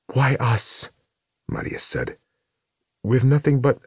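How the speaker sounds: high, loud frightened plea; desperate plea. A narrator's reading. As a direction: beg the demon, voice climbing. Maria pleads with demon.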